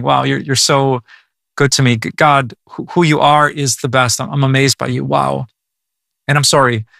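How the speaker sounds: earnest, intimate prayer to God; a pastor modelling a heartfelt personal prayer; spoken prayer. Shown as a demonstration. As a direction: pray straight to God, heartfelt and simple. Sample prayer shown to listeners.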